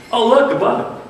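high, loud, excited discovery; imitated toddler wonder. Three-year-old stops mother to show a bug, excited.

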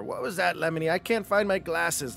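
a hint of a cranky old troll; gravelly troll woman. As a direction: grumble about the mess. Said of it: "deep, gravelly woman's voice coming from beyond".

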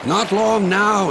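high, drawn-out reassurance; encouraging. A narrator's reading. Driver urges Rusty on, encouraging and slow. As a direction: cheer them along, stretching the words. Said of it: "encouraged the driver".

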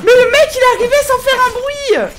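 loud high laughing through the words; shrieking laughter. Real, not acted. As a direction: laugh off the fright, screaming. Laughing after jump scare.

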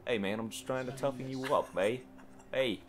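hammed-up bad Italian accent; horrible Italian accent. Shown as a demonstration. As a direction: put on a clumsy mock Italian. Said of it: "my horrible Italian accent attempt".

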